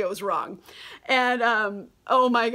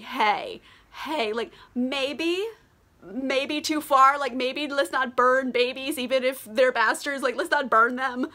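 slow, halting mock-hesitant plea; tentative objection; 3 semitones higher than usual. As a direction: gingerly imitate men suggesting restraint. Timid lords hesitantly object to king.

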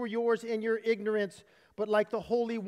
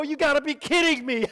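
amazed angels; 3 semitones higher, 5 dB louder than usual. Acted. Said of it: "And the angels go".

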